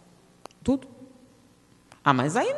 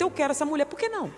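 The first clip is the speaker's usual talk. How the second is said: mock entitled plea; 6 semitones higher, faster than usual. Man wanting a married woman.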